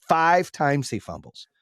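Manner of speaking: FIVE drawn out slowly for emphasis; "Five" stretched out in disbelief; stress on FIVE. Real, not acted. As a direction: lean long and hard on "Five". Incredulous repeat of the fumble count.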